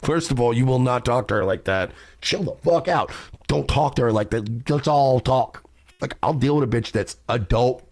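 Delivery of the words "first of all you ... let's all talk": loud firm calming-down shout; stepping in. Retold or imitated. Stepping in when a guy insults his girlfriend, loud and firm. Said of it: "I've had situations where I'm like".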